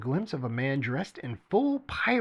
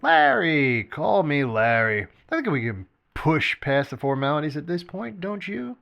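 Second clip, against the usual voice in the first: insistent; 5 semitones higher, 6 dB louder than usual. A narrator's reading. Tweedle insists on first name.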